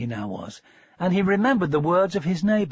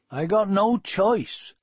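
slow, resigned farmer; lightly voiced country farmer, slow; a hint of a weary farmer; farmer's voice; 5 semitones higher, slower than usual.

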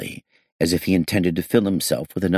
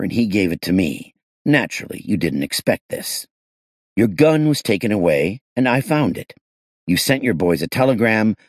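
pressing; 3 semitones higher than usual. Acted. Detective presses suspect with evidence.

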